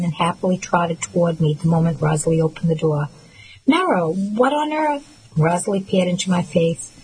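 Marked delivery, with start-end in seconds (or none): 3.7-5.0 high, slow startled cry; an older woman shocked to find her at dawn. Acted. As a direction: gasp it out, caught off guard at the door. Rosalie startled at the door.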